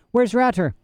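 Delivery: put-on high, lost little boy; a dazed small boy asking. A narrator's reading. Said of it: "he said".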